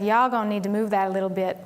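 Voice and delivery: light mock Southern accent on a retold quote. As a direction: imitate a coach's Southern accent. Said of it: "said in a Southern accent".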